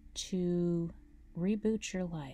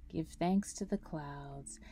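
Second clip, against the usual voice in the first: guided meditation. Acted. Guide leading listeners through a grounding breathing meditation, calm meditation voice. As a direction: guide them through each breath, unhurried, drawing out key words.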